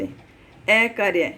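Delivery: अकार्य drawn out very slowly, syllable by syllable; अकार्य को धीरे-धीरे बोलना; slow careful demo. Shown as a demonstration. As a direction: spell out अकार्य slowly for the class. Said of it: "अकार्य थोड़ा सा कठिन लगता है अपने को".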